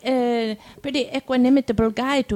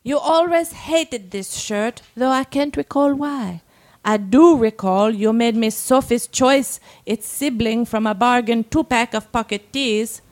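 measured reading with deliberate pauses; dramatic story reading; 3 semitones lower than usual. A narrator's reading. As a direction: read it aloud as a monologue, phrase by phrase. Reads a submitted story aloud.

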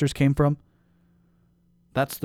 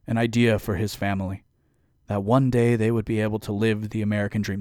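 folksy pandering politician; 3 dB louder than usual. Pretend. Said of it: "let me put on my politician voice".

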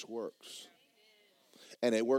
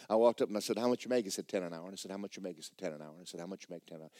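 fading repetition; 3 semitones lower, much faster than usual. Retold or imitated. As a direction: reel off the repeated exchange, dwindling. Same tedious exchange retold again.

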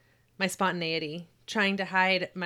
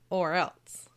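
whispering. Acted. Dad's threat, whispered aside.

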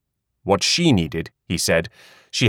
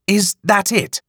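Hattie's voice; 11 semitones higher, slower than usual. A narrator's reading. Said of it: "Hattie asked".

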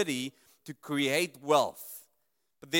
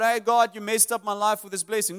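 louder mock complaint at God; complaining; 4 semitones higher, 5 dB louder than usual. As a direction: whine at God, blaming him. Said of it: "you're complaining to God".

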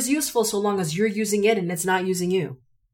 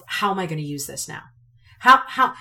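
urgent self-questioning; 5 dB louder than usual. Retold or imitated. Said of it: "to really say to myself".

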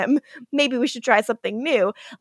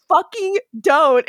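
mock stern; 5 semitones higher, 3 dB louder than usual. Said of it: "And he's like".

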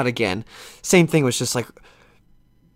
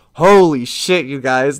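amazed; 6 dB louder, slower than usual. Retold or imitated. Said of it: "And I just went".

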